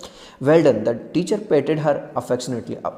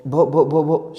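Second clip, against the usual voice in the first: stammering; slower than usual. Acted. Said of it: "she began to stum-, stammer".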